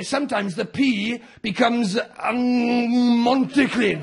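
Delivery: slow, drawn-out "Montyclun"; Welsh mutation demo. Shown as a demonstration. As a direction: stretch "Montyclun" for the laugh. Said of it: "The P becomes a B".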